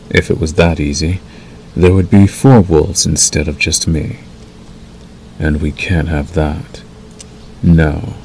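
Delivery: measured, unhurried wolf mentor role; lightly voiced werewolf guiding a new packmate. Acts wolf role to listener.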